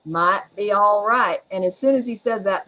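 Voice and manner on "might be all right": slow Southern drawl, imitating husband; calm, lightly imitated Southern drawl. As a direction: draw it out slowly like an easygoing Southerner. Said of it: "in his very Southern drawl".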